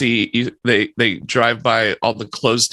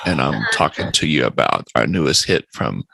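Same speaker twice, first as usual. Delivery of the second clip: deeper late-night radio DJ voice, lower; mock radio DJ; 4 semitones lower than usual. Host playing a DJ for listeners, lower smooth radio voice. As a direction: lay on the smooth radio jock patter. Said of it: "This is Wolfman Jack".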